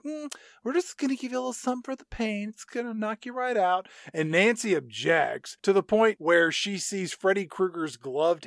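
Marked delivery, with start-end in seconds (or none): 0.0-3.9 mock sweet nurse. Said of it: "she's like".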